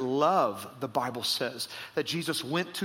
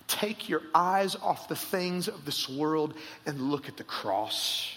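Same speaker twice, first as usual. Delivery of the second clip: hushed appeal; slower than usual. Acted. Pastor urges the doubting listener, hushed.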